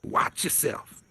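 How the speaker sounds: a slow breathy warning in jest; teasing whisper. Real, not acted. Host teases a guest still on mute, slow whisper. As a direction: whisper it slowly, playfully.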